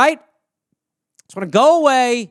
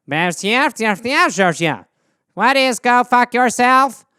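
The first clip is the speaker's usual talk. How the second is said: alien chirp; slower than usual. Acted. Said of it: "the alien's just like".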